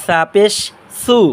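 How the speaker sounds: সু as a soft th; tongue tip at the front teeth for a soft সু; soft tha. Shown as a demonstration. Teacher correcting common mistakes, soft lisped th in সু. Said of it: "সামনে দাঁতের আগার সাথে নরম আওয়াজে".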